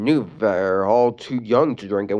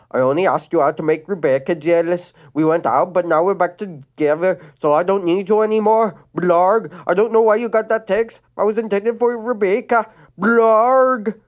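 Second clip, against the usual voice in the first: Adam voice; 7 semitones higher, 4 dB louder than usual. Acted. Adam explaining.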